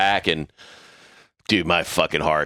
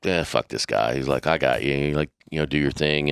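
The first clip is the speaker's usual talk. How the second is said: low, easy reassurance; 5 semitones lower than usual. Retold or imitated. Master at Arms quietly reassuring.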